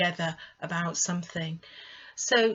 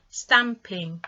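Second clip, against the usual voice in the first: slow syllable demo; 5 dB louder than usual. Shown as a demonstration. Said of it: "ing adds another syllable".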